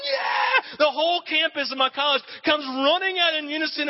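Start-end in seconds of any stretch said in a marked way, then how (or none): 0.1-0.8 high cheering yell; celebratory yell. Retold or imitated. College students watching the game, high cheering yell. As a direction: cheer the winning run. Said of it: "We were sitting there going".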